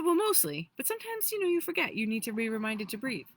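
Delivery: high, eager, fast little helper voice; excited little being. Retold or imitated. Little being eagerly reminding her to breathe, excited and high. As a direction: chirp it out like a thrilled tiny helper. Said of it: "he's, like, super excited".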